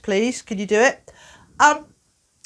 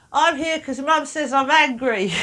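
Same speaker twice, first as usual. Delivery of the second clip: put-on little child voice; 6 semitones higher, slower than usual. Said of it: "poor little ones, they just go".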